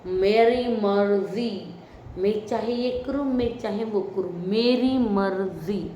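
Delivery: slow, stubborn mock drawl on मेरी मर्जी; a mock imitation of a defiant contestant, slowly; imitating Konika. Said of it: "आप बोलती रहती हो".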